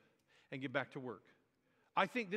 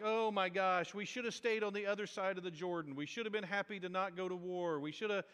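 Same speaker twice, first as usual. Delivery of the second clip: mock whiny complaining; 2 semitones higher than usual. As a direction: whine with regret, imitating a sore loser. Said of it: "it sounds whiny".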